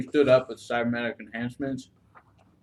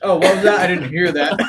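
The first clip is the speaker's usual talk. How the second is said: startled shout, half in jest; a jokey startled yelp; mock startled; 4 dB louder than usual. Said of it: "It's, like, not like".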